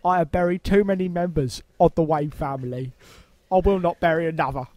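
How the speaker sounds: lightly voiced Cockney butler, grave; a hint of mournful old Cockney retainer; Michael Caine. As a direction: do a bad impression of the film trailer's solemn butler. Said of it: "the bad impression of him from the Dark Knight Rises trailer".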